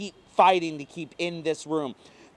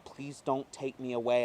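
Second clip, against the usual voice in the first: scratchy pleading voice; 3 dB quieter than usual. Acted. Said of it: "I plead in my scratchy voice".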